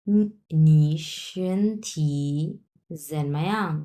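slow, careful reading as the doctor; doctor's question. Acted. Teacher voices doctor asking patient, slow deliberate reading. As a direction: read the doctor's line slowly, word by word. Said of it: "ডাক্তারে question করছে রুগীকে".

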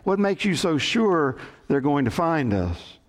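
high, exasperated outburst easing down; acted beside himself. Castaway beside himself questioning his companion, mock frantic. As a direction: demand an answer in mock distress. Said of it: "The first man was beside him".

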